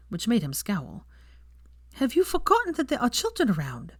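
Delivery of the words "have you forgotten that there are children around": snappish. A narrator's reading. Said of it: "she said snappishly".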